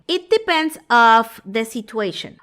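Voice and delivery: "depends of" said slowly, loud, as the error; mock a learner's wrong "of"; common mistake. Shown as a demonstration. Teacher imitates the learner's wrong phrase. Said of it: "a veces dicen esto".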